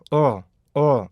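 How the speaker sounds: 어 as a short voiced L, tongue on the palate; dark L sound. Shown as a demonstration. Teacher models the L sound, short dark L. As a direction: say "어" as a short, falling uhl. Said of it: "이 소리가 나야 돼요".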